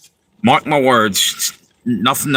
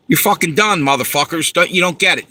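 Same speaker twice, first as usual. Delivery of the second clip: real anger; 4 semitones higher than usual. Real, not acted. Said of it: "I'm just pissed".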